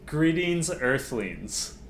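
lightly mimicked alien-style greeting; quoted speech opener. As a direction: announce it like a speech opener, a touch drawn out. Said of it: "how did she start said speech".

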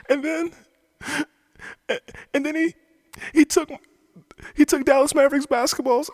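put-on high, childish tattletale voice; mock tattling. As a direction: whine it like a kid telling on someone.

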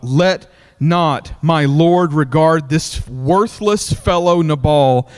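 slow, deliberate verse reading; slow Bible verse read aloud; scripture reading. Acted. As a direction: lay out the verse word by word. Reads verse twenty-five.

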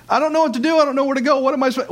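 high, flustered, lost voice; panicked confusion. Acted. Preacher voicing a lost believer, high panicked fluster. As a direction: sound frantic, not knowing where to turn.

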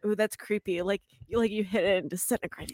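spooky whisper. Real, not acted. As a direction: whisper it like a ghost story. Creepy bug remains.

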